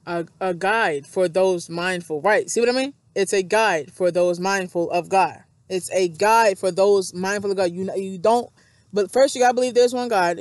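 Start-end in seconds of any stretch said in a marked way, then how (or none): 0.4-2.2 "guide" stressed and stretched, slow deliberate reading; 強調した読み方. Shown as a demonstration. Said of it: "you gotta really put the emphasis". 3.2-5.4 "guide" stressed in a slow, weighted reading; emphatic reading. Shown as a demonstration. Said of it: "you gotta really put the emphasis". 5.7-7.7 "guide" stressed, each key word weighted; emphatic reading. Shown as a demonstration. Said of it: "you gotta really put the emphasis".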